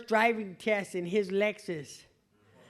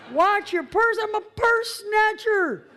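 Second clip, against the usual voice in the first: much higher, louder and slow, laughing through it; loud laughing mock outrage; laughing disbelief; 12 semitones higher, 8 dB louder, slower than usual. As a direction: hoot at the absurd request. Incredulous retort, laughing.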